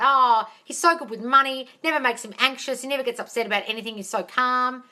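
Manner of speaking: brighter, lifted affirmation read; demo affirmation. Shown as a demonstration. Coach showing a viewer how to affirm about him, lifted and sure. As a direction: say it like you believe it. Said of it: "Good affirmations".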